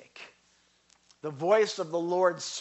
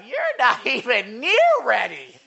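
mock yell; 9 semitones higher, 8 dB louder than usual. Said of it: "yelling at my wife".

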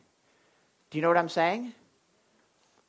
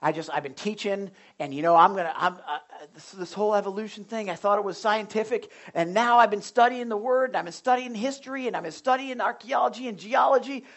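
retold zealous newcomer, building in pitch; fired up. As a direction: imitate an eager man rushing through his big plans. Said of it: "he was really fired up".

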